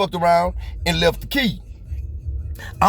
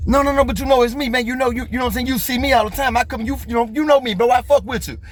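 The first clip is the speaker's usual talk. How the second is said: higher, insistent begging to the clerk; pleading; 6 semitones higher than usual. Retold or imitated. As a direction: talk your way past the clerk, pushing. Begging clerk to let him in.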